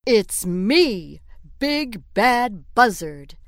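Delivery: loud, proud bird boasting; swaggering buzzard voice; boastful Buzzard. Acted. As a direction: brag like a vain big bird.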